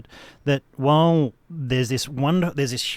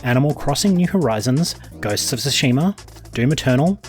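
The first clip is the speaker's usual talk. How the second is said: smooth late-night news read; sultry narrator. Acted. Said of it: "In my sultry voice".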